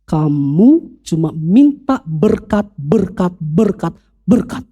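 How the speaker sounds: slow, deliberate rebuke as the Holy Spirit; stern rebuke. Retold or imitated. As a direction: draw each word out like a scolding from above. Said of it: "Roh Kudus tegur dia dengan keras". (teguran tegas dan lambat dari Roh Kudus)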